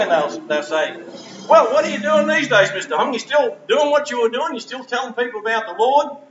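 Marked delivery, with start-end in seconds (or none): 1.5-6.2 higher voiced young woman asking eagerly; a lightly voiced girl quizzing her old teacher; former student girl.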